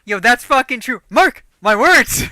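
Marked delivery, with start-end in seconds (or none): 1.1-2.2 loud catchphrase. Retold or imitated. Quoting his catchphrase loudly.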